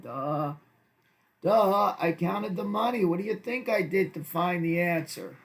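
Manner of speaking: sarcastic duh. Pretend. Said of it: "I would never talk like this to them".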